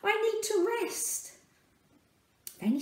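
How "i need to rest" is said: Mary calling out wearily. Acted. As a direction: call to Joseph, tired and urgent. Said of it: "Mary called out".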